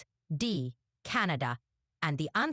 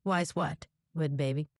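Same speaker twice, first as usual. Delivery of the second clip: light Southern twang; hillbilly accent; 2 semitones lower than usual. Pretend. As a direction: ask with a mild Southern accent. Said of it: "You're a hillbilly girl".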